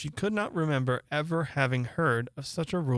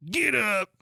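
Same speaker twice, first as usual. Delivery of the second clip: imperious command; 8 semitones higher, 4 dB louder than usual. Acted. Queen orders gardeners.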